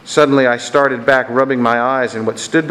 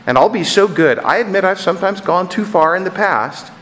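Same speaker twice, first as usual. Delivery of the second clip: chattering lizard; 7 semitones higher than usual. A narrator's reading. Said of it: "the lizard began chattering to the ghost so loud".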